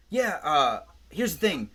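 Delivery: lightly voiced Indian doctor explaining the food; Indian doctor impression. TV doctor lectures hungry patient, light Indian accent. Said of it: "He's, like, an Indian guy".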